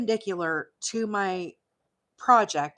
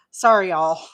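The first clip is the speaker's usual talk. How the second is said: laughing apology; 10 dB louder than usual. Real, not acted.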